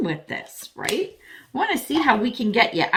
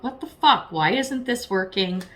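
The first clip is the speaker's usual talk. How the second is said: exasperated outburst; 3 semitones higher than usual. Retold or imitated. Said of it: "You're blowing up".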